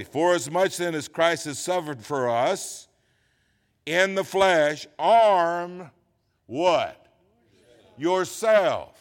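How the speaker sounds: deliberate verse reading, broken by pauses; slow reading. Shown as a demonstration. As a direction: read it out phrase by phrase for the congregation. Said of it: "Let's read it slowly".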